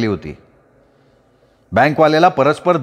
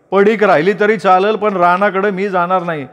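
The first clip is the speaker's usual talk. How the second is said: higher, defiant refusal, mildly acted; stubborn refusal; 6 semitones higher than usual. A narrator's reading. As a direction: refuse flatly, lightly heated. Angry refusal in quarrel. (रागाने नकार)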